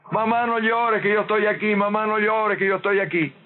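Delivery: lightly voiced girl soothing her mother; daughter's spirit.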